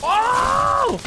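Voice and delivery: high sudden yelp; shocked outcry; surprised yelp. Real, not acted.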